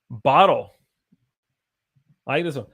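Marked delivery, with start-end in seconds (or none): 0.1-0.7 crisp British T in "bottle". Shown as a demonstration. British accent demo for the class. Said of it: "The British, the British".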